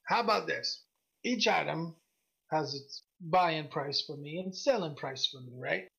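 lightly voiced gruff merchant striking a bargain; a hint of gruff woman shopkeeper. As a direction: haggle in a mildly gruff voice. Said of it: "she's got this gruff voice".

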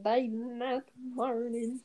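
trying out a Southern twang; Southern accent. Shown as a demonstration. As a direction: practice line in a Southern accent. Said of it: "Can I just do it in Southern accent?".

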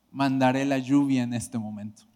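a calm, grave promise; voice of God. Retold or imitated. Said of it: "Pero me dice".

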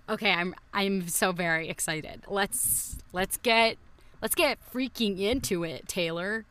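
pumped-up party bro hype; frat bro voice. Pretend. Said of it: "I like your frat bro voice".

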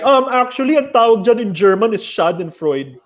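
lightly mocking a pedant correcting you; know-it-all friend. Know-it-all friend correcting the group on a German word, mildly mocked. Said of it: "na sobrang know-it-all niya".

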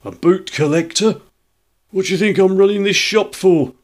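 indignant shopkeeper building to a high, loud rant; growing angrier. A narrator's reading. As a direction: escalate from affronted questions to shrieking outrage. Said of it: "grow more angry as they proceed".

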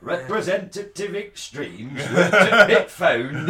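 repeating Alan Moore's quote to the hosts in a mock northern accent, laughing. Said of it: "telling you that in that accent".

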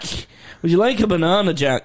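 lightly voiced mock shopper; a hint of the teasing voice; mimicking his mate offering a banana; Uncle Alec voice. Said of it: "The Uncle Alec voice".

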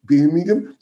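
put-on Birmingham accent. Shown as a demonstration. Commentator showing his Birmingham accent on the town's name, Brummie. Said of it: "that's my Birmingham accent".

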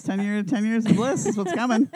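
giddy laughing gush. Real, not acted. Gushing about couple.

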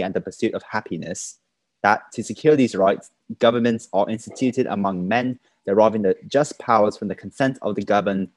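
lightly put-on colonial British accent. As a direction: read it in a faint old British colonial accent. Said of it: "It's getting a bit overseas".

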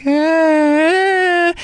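high idle whining "Ah"; mock a bored toddler keeping up a cry; imitated toddler wail. Mother mimicking a toddler idly fake-crying at the airport. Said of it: "marking time by going like".

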